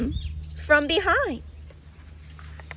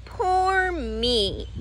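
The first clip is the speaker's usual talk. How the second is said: a touch of sighing pity, voiced a little higher; mild self-pity; 5 semitones higher than usual. A narrator's reading. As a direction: sigh it out lightly, feeling sorry for himself. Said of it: "sighed the little red caboose".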